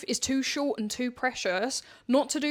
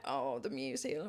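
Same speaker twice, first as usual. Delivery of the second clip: hushed mock reverence, much softer; mock reverent; 10 dB quieter than usual. Clubber gently mocking herself for gushing about music, mock reverent. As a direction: send up a music devotee in a soft voice.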